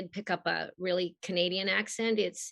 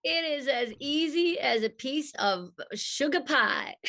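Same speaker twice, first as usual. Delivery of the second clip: put-on higher, sugary Southern accent; 5 semitones higher than usual. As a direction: answer like a Southern belle. Answers in Rogue's Southern voice.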